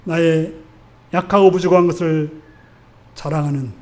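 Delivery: hushed close of a sermon, easing down at the end; prayer invitation. Real, not acted. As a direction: gently lead the congregation into prayer, leaving space between phrases. Leads congregation into closing prayer.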